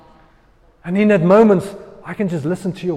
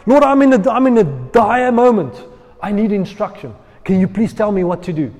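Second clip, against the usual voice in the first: mock pleading prayer; 3 semitones higher, 5 dB louder than usual.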